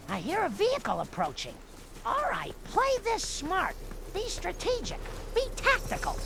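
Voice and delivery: softly muttered to herself; hushed. Acted. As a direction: keep it hushed and careful. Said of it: "Quiet, Marge".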